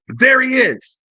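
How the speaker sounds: high-pitched mock call; high, drawn-out acted exclamation. Voicing woman spotting her man.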